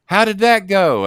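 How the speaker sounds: curious host; lightly voiced Russo. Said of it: "Russo asks".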